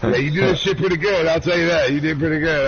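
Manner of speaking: imitating friend. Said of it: "He's like".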